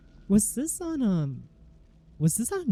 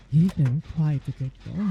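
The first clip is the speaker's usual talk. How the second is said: mock mommy voice; 2 semitones lower, 3 dB louder than usual. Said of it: "You're like".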